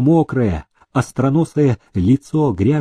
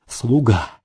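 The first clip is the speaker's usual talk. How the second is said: plain reading voice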